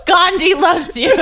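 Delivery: giggling, slow joke line; laughing. Real, not acted. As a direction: laugh it out slowly. Joking punchline amid laughter.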